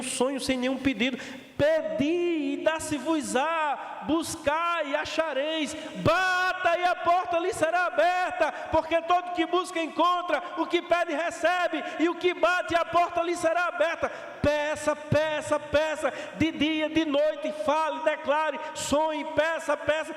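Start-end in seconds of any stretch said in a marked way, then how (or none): 1.6-14.1 preached scripture. Acted. Pastor quoting scripture with force. 14.4-20.1 urgent preached repetition; preaching exhortation. Acted. Pastor urging the church to ask, preaching.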